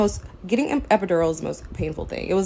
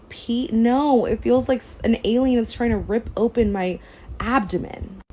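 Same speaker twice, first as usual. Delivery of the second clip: incredulous retort; 5 semitones higher, 4 dB louder than usual. Retold or imitated. Retelling arguing with doctors.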